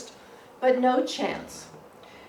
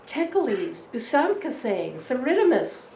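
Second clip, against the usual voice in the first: grand theatrical recital, a touch raised; declaiming verse; 3 semitones higher than usual. Retold or imitated. Father at dinner declaiming to his children, grandly. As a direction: proclaim Marlowe like a stage king.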